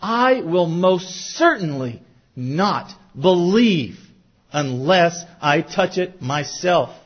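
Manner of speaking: slow and deliberate, every word weighted; a stubborn doubter digging in his heels; emphatic vow. Retold or imitated. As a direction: lay down Thomas's refusal firmly. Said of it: "that is so emphatic".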